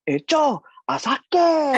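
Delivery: high, loud, laughing yelp; mock cry of pain. Great-uncle retold crying out, mock yelp laughing. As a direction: fake a hurt cry while laughing. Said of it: "lepas tu dia cakap".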